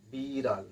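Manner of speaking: retroflex ড় in বিড়াল, tongue rolling backward; curled-back ড়. Shown as a demonstration. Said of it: "জিভটা কেমন গুটিয়ে পেছনের দিকে". (বিড়াল বলতে জিভ পেছনে গুটিয়ে ড়)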